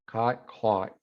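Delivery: "Caught, caught" said with two different vowels; vowel contrast. Shown as a demonstration. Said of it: "You hear that?".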